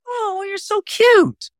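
very high, drawn-out cooing; baby talk. Acted. Coach imitates people greeting a baby, high cooing voice. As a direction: coo high and slowly over a baby. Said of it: "or, or the baby".

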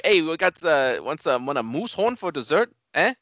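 hint of hammed-up Canadian accent; mock Canadian waiter. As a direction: play a Canadian waiter offering a special. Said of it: "they're all talking like".

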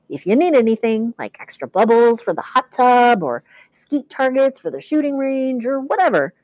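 high, upbeat salesman bellhop; overeager bellhop. Acted. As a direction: sell it like a too-happy bellhop. Bellhop pitching free luxury.

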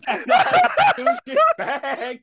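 high, loud laughing through the words; cracking up while telling it; slow, laughing, near shouting. Real, not acted. Retelling pushing burger back, laughing.

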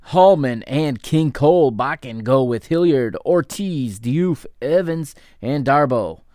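2 upbeat basketball play-by-play call; 3 call the action as it happens, lifting on big plays; 1 live play-by-play. Acted. 4 commentator calling the second half for listeners, lively play-by-play.

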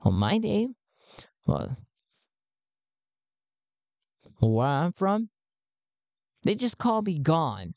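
an excited recruiter greeting a new believer; high-pitched Garn. Acted. Garn welcomes Sven into the cause, pitched high.

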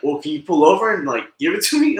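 mock mad caller. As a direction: demand it like an irritated caller. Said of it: "dude, he got mad".

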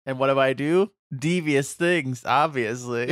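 lightly hammed-up cartoon villain; mustache twirling villain. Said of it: "He's twirling his mustache".

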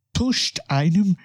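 strained voice breaking up high; voice cracking. Real, not acted. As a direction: voice giving out on the words. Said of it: "ich kann heute nicht mehr sprechen".

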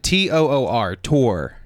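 "tour" spelled out letter by letter, then said. Shown as a demonstration. Arguing for the long pronunciation, "tour" spelled out. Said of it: "It's like a two-syllable word".

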